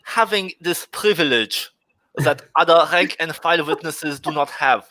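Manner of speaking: put-on German accent. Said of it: "the speaker is trying to do a German accent".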